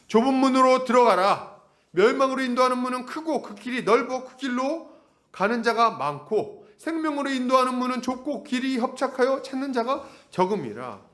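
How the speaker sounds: high, sustained recitation tone; declaimed Bible verse, dropping at the close; scripture reading. Acted. Reads scripture aloud.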